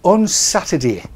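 broad mock Cockney "Saturday"; Cockney put-on, loud. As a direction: drop into a jokey London accent. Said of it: "down south where they talk like that".

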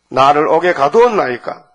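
firm, emphatic protest to the king. Acted. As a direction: protest the imprisonment, pushing the words out. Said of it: "항변하는 거예요". (힘주어 항변하는 말투)

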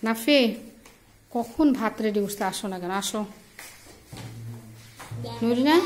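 calling out across the house. Real, not acted. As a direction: call them in to eat. Calling the kids to eat.

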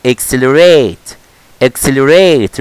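ACCELERATE said very slowly and clearly; slow motion. Shown as a demonstration. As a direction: draw out each syllable of "Accelerate". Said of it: "هنطقها بالنطق بقى slow motion".

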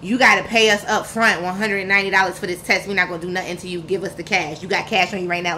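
lightly mimicked curt, pushy clerk voice; brusque and demanding about the cash; a hint of a cold receptionist asking for money up front; rude clinic worker. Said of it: "that's how this lady was talking to me".

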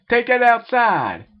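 high, loud yell; a high angry yell. A narrator's reading. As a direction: shout him down. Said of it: "yelled Sims".

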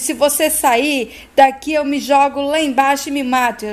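dramatic retold yell, pitch lifted; mild acted yell. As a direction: act out a shouted threat without full force. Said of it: "corre atrás dele gritando".

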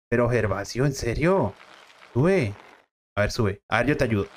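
low, calm fatherly voice; dad voice. Acted. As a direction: soothe your son as the gruff dad.

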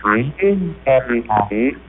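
synthetic machine voice; vocoder. Shown as a demonstration. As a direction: speak like an early talking machine. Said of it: "have the voter say".

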